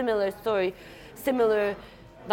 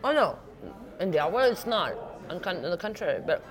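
mouth full; faster than usual. Real, not acted. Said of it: "I'm sorry, I'm eating".

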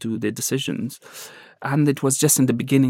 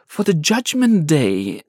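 tearful captor; 11 semitones higher, slower than usual. Retold or imitated. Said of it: "crying so much".

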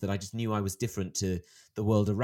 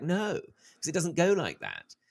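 higher, slow insistent no; retold firm objection; 6 semitones higher, much slower than usual. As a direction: draw out a protesting no. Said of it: "I was like".

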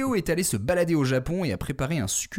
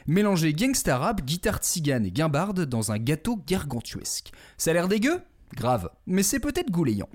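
announcer intro; 3 semitones higher than usual. Acted. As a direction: introduce him like a showman. Alliterative host introduction.

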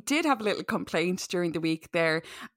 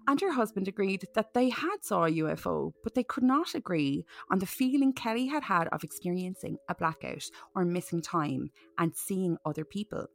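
measured case-file narration; story narration; 2 semitones lower, 4 dB quieter than usual. A narrator's reading. Host reading Kelly's UFO case aloud, measured narration. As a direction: read it out evenly and seriously.

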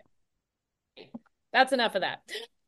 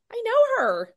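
much higher, wondering half to herself; puzzled recognition; 10 semitones higher than usual. Retold or imitated. Woman spotting a familiar face in a restaurant, high and puzzled. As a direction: squeak of sudden recognition. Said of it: "I'm like".

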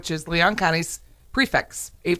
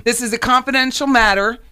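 "This is a confidential matter" said higher and louder, rising on "confidential"; ominous official tone; 5 semitones higher, 4 dB louder than usual. Retold or imitated. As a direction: lean on "confidential" like a mock stern deputy. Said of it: "That was my cue".

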